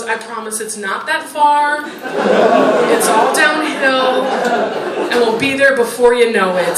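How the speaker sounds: put-on slow, gentle mother comforting her crying kid; soothing mother. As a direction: coax the child along, slowly. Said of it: "his mom leans down next to him and goes".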